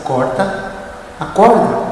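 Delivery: hushed and low; soft, gentle voice. Acted. Inner voice speaking to the frightened climber, very softly. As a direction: drop right down to a gentle, soft voice. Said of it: "aquela voz bem suave".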